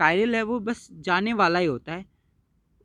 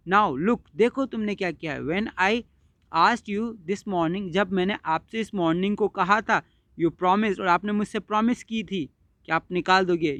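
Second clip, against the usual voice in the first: mild protest; slower than usual. Acted.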